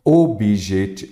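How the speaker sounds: OBJETI broken into slow syllables. Shown as a demonstration. Teacher starting the next example word, OBJETI slowly syllable by syllable. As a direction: sound out "Objeti-" slowly and break off. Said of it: "Eu falei mais forte".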